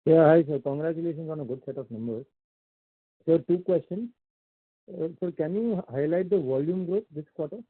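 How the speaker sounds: muffled speakerphone voice. Real, not acted. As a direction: sound muffled, as if over speaker. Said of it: "your voice is coming a little bit muffled".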